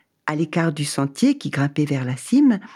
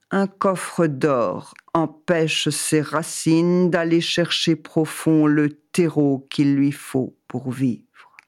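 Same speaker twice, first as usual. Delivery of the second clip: voice of God; slower than usual. Acted. God answers slowly.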